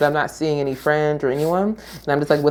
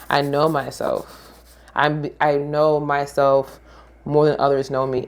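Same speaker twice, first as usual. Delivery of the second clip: calm self-assurance; slower than usual. Retold or imitated. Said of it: "be like".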